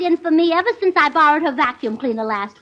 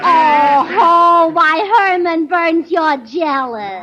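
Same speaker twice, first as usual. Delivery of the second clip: slow, teasing tut-tut with a loud oh-ho; playful mock reproach, slowed down; mock scolding; 4 dB louder, much slower than usual. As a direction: chide the pet fondly, drawing it out. Gracie teases duck about jealousy.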